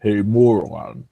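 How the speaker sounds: slow, drawn-out YouTuber impression; unhurried imitation of an amazing voice; Undoom. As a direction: lightly imitate a smooth-voiced host, taking your time. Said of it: "Undoom has that voice where he says".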